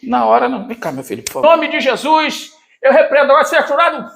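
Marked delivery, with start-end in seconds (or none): 1.5-4.1 healing prayer. Acted. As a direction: rebuke the illness with authority. Pastor praying for healing. (oração de cura pregada)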